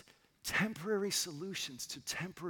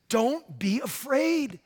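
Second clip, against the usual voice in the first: booming, slow, much louder and higher; glorious proclamation; 7 semitones higher, 14 dB louder than usual. Retold or imitated. Risen Jesus announcing victory over death, booming. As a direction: proclaim it like a king's decree. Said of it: "It's just glorious".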